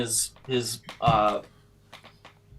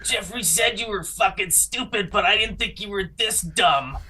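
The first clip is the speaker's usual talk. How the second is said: angry shout; 5 semitones higher than usual. Acted. Character insults party.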